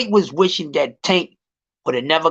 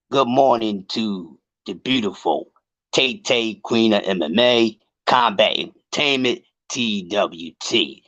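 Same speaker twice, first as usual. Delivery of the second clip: lower, smooth radio DJ greeting; 8 semitones lower than usual. Pretend. Greeting Tay Tay on air, mock radio voice. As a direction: croon it like a late-night radio host. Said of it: "I gotta get my radio voice on for Tay Tay".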